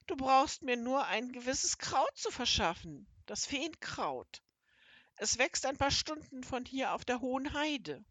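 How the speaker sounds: hint of a creature voice; lightly voiced toad fairy. Toad explains the magic herb.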